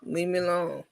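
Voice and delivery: flat, soft, lifeless mumble; zero feeling. Retold or imitated. Rico insisting he's fine, totally flat. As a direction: say it like you mean none of it. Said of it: "with zero feeling".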